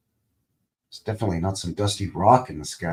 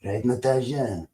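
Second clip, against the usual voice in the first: Boris voice. Retold or imitated. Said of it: "Boris and Natasha".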